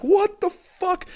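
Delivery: high, drawn-out retold yell of alarm; acting out being startled awake. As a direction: yelp it slowly in shock, very high. Retells his startled shout at her.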